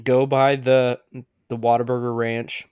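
gurgly, bubbling throat voice; words coming through a bubble of phlegm. Real, not acted. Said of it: "I had some bubble voice there".

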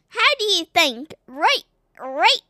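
loud attempted Scottish that drifts into Australian; Scottish accent slipping Australian. Shown as a demonstration. Child attempts accent for father, Scottish turned Australian. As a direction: try Scottish, let it slide Australian. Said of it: "Okay, that came out Australian".

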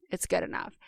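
half-whispered shrug, letting yourself off the hook; soft, breathy self-excuse; dismissive excuse. Retold or imitated. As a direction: mutter it like a lazy excuse to yourself. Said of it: "something I caught myself doing is".

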